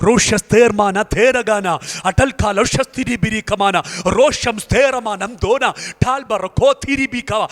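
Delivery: slow rhythmic glossolalia; speaking in tongues. Real, not acted. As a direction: chant the syllables slowly in prayer. Speaking in tongues during prayer.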